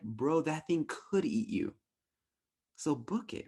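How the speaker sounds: a lightly voiced bro; casual bro voice. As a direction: friend telling you to run. Body voiced as a buddy.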